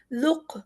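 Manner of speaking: لق with a small echoing bounce on the qaf; teacher demonstrates qalqalah. Shown as a demonstration. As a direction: pause and let the qaf bounce. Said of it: "قاف پہ تھوڑا سا قلقلہ ہو رہا ہے".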